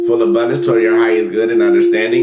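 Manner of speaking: pace the listeners through each breath; guided breathing. Acted. Leads a breathing meditation.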